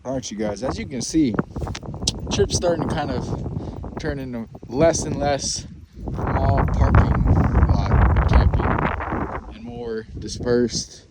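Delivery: talking while shivering from cold; cold, shaky-voiced vlog talk. Real, not acted. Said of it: "I'm kinda talking like this 'cause I'm cold".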